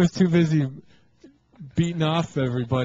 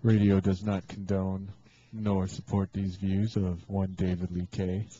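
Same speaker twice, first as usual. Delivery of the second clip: put-on old radio announcer; 3 semitones lower than usual. Mock station disclaimer interrupting show.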